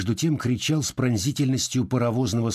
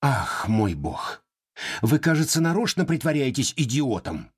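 boiling over; 5 semitones higher than usual. Acted. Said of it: "вскипела дама".

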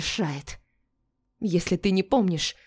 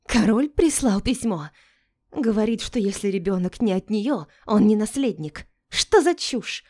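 high, loud agitated protest; agitated tirade; 5 semitones higher, 4 dB louder than usual. A narrator's reading. Melinda ranting in panic about the heir, high and loud. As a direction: rant it in rising panic.

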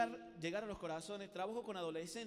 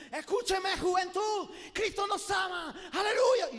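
shouted high, like a fiery stadium preacher; passionate preacher; 10 semitones higher, 11 dB louder, slower than usual. Retold or imitated. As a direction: roar it at the crowd, high and loud. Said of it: "se movía así, decía".

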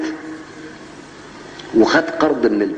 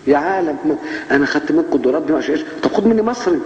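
desperate plea; 3 semitones higher, faster than usual. Retold or imitated. Debtor pleads with the bank.

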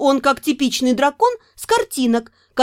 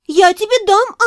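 mock threat; 6 semitones higher, 4 dB louder than usual. Heroine scolds the dragon.

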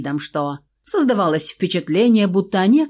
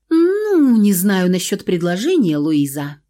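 embarrassed; slower than usual. Acted. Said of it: "смутилась Британи".

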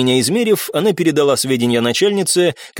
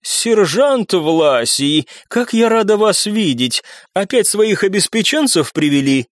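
slow, higher, languid purr; sultry voice; 6 semitones higher, slower than usual. A narrator's reading. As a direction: draw it out lazily, higher. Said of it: "томным голосом произнесла".

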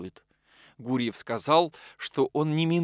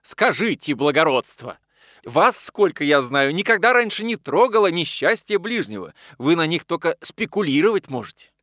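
mild sarcasm; 5 semitones higher, 5 dB louder than usual. Acted. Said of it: "язвительно заметил Стремлёв".

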